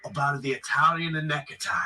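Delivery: put-on Italian mobster accent, high and showy; over-the-top Italian gangster accent. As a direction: play up a thick Italian accent for the Godfather. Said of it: "What happened to your accent?".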